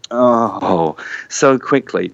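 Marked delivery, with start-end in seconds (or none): 0.1-1.0 imitated disappointed "oh"; crowd's letdown. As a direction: deflate like a let-down audience. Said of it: "cheer turn into a".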